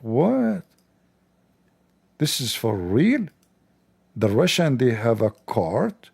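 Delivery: mock shocked disbelief. Mocking the journalist amazed by a grocery cart. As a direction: play the amazed reporter seeing his first cart. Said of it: "He was shocked to see a cart. Like".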